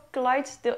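"Clydesdale" in two syllables, KLYTS-dil; unsure pronunciation. Shown as a demonstration. Vlogger on a last guess at the breed, "Clydesdale" as KLYTS-dil. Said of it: "geen idee hoe je het uitspreekt".

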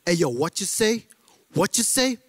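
lightly imitated African American challenge; mock a street confrontation in African American accent; angry African American. African American squaring up to someone, lightly acted African American challenge. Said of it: "African Americans, when they're angry".

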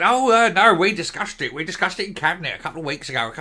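rushed, flustered minister fumbling an excuse; mock flustered excuse. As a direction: blurt it out fast, caught out. Mocking Shona Robinson's excuse.

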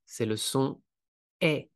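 "est" said as open è, mouth wide; teacher showing the open è; open è demo. Shown as a demonstration. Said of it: "plus ouvert, la bouche".

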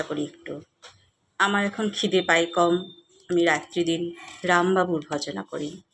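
measured, expressive poetry reading; poem recitation. Acted. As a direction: recite it line by line with lifted openings and settling ends.

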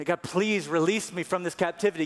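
pleading Israelites. Acted.

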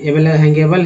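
हैंगेबल with able said एबल; able said as ebal. Shown as a demonstration. Teacher models able as एबल for students. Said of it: "एबल बोलते हैं".

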